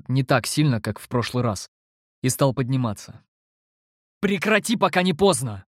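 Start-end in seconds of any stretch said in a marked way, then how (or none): 4.2-5.6 high, urgent exclamation; exclaiming. A narrator's reading. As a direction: cry out a warning, high and urgent. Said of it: "воскликнул я". (высокий тревожный возглас)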